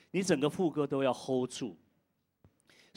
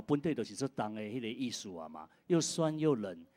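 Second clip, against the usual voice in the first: ordinary delivery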